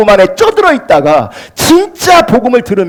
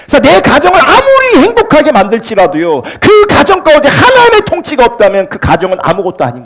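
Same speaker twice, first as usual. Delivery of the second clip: raised, emphatic preacher's voice; forceful preaching; 6 semitones higher than usual. Real, not acted. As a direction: press the warning on the congregation.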